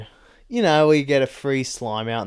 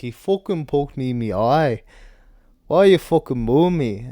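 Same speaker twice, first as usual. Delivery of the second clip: hammed-up heel fighter impression; indignant mock complaint, put-on voice, building louder; Tom; 4 semitones higher, 5 dB louder than usual. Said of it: "He's gonna be like".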